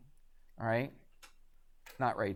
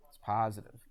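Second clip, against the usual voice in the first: a hesitant answer that sounds like a question; unsure, like a question; 4 semitones lower, 5 dB quieter than usual. Real, not acted. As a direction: say it as if unsure you are right. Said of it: "You said that like it was a question".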